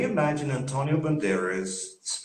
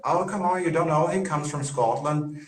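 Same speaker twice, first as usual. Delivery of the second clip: higher, a hint of a chiding barman; lightly mimicked pub banter, pitched up; lightly voiced bartender; 6 semitones higher than usual. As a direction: imitate a bartender brushing off a question. Acts out bartender vouching for him.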